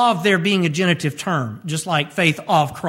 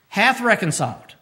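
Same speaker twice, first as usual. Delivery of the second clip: "Hath" pressed before reconciled; stress on hath. Shown as a demonstration. Preacher singles out a word for listeners, stressing hath. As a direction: dwell on "Hath" as the key word. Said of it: "This word hath indicates".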